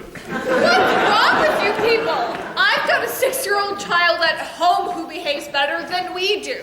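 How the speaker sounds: exasperated scolding. Acted. Scolds the squabbling group.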